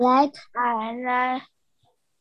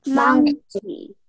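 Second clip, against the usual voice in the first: group repeating after leader; 3 semitones higher, 4 dB louder than usual. Real, not acted. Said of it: "everyone repeat after me".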